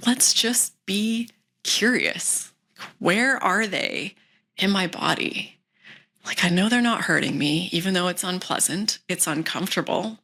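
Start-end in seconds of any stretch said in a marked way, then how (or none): 0.1-5.6 calmly notice the symptoms with interest; gentle and curious. Shown as a demonstration. Coach shows how to greet symptoms, gently curious. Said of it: "just gently like".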